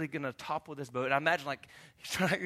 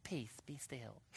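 much softer, timid "Peace, be still"; meek whisper-soft; 6 semitones lower, 16 dB quieter, much slower than usual. Retold or imitated. Mocking a weak Jesus, soft and timid. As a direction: say it limply, no authority. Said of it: "didn't get up and walk out".

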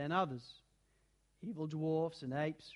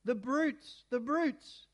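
tearful; 6 semitones higher, much slower than usual. A narrator's reading. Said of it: "tears streaming down her cheeks".

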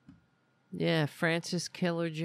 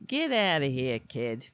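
a bit louder, playful shoo; mock shoo; 3 dB louder than usual. Owner shooing the pushy cat, mock scolding. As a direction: shoo the pest away, half laughing.

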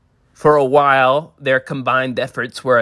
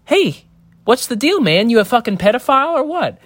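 high, strained, hammed-up indignation, much higher; mock outraged yell; 10 semitones higher than usual. Father confronts Ethan Coen in the theater, mock outraged. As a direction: burst out like a wronged father, over the top.

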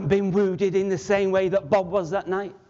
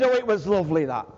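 quoting dad; 5 semitones lower, faster than usual. Retold or imitated. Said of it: "he always said".

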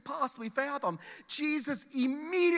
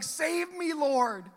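higher pitched plea for rescue; desperate cry; 5 semitones higher, much slower than usual. Acted. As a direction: cry out while going under. Peter sinking cries out.

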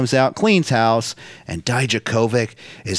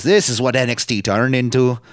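put-on a faint, half-hearted Irish accent quoting Finn; barely-there Irish lilt, owning that it's bad. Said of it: "That's not a good Irish accent".

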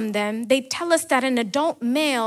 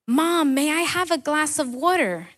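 put-on little boy calling; 4 semitones higher than usual. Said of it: "the little boy called from his bed".

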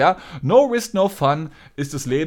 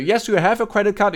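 insistent caller; 7 semitones higher, 3 dB louder than usual. Retold or imitated.

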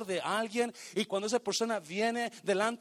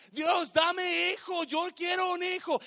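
pleading prayer; 8 semitones higher than usual. Acted. Hannah pleading for a child.

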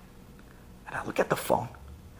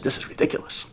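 unvoiced, softer exasperated whisper; whispered aside; 8 dB quieter, faster than usual. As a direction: mutter it under your breath. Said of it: "I said".

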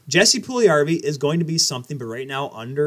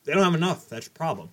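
eating chicken; 2 semitones higher than usual. Real, not acted. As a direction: mouth full of chicken. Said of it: "Sorry, I'm eating chicken".

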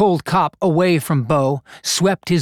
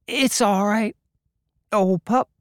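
slow and gentle; 7 semitones higher than usual. Acted. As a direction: gently comfort the pup. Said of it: "and said slowly".

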